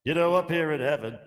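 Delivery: high, excited talk-show host; Regis impression.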